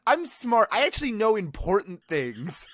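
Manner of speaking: huffy retold self-defence; defensive. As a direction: protest it hard, mock self-important. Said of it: "get so immediately defensive".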